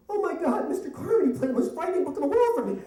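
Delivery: put-on high, loud child's wail; hammed-up frightened child, rushing; terrified boy. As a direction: blurt it to Mom in a panicked kid voice. Terrified boy runs to mother.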